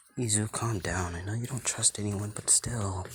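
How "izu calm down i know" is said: ordinary delivery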